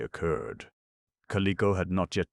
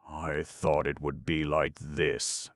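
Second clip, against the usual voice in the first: disgusted mutter; slower than usual. Acted. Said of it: "muttered Goof in disgust".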